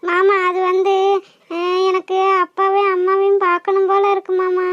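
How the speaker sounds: homesick, hesitant confession; mild acted weepiness; tearful. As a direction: explain haltingly while crying. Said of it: "அப்புறம் ஏம்மா அழுகுற?".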